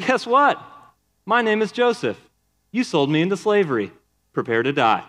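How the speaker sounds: hinted menace, half-hammed; vengeful Joseph. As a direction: play a lightly voiced avenger gloating over his brothers. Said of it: "could he have revealed himself and said".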